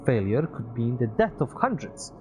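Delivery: put-on high, loud wistful young man; Peter's voice. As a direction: voice Peter, a little sad.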